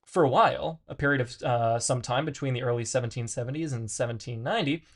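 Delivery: measured read-aloud of dense philosophy, stumbling on hard words. Acted. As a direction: read it out with lively, swinging emphasis. Reads philosophy text aloud.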